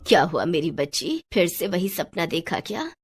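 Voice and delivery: lightly voiced, soothing old woman; concerned grandmother. Grandmother asks the girl about her nightmare, concerned. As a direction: gently check on a frightened child.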